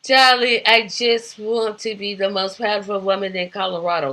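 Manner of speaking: badly faked British soap diva; Alexis. Alexis tells Crystal her ambition, in mock British accent. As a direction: do a rough, hammy British accent. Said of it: "in her British accent".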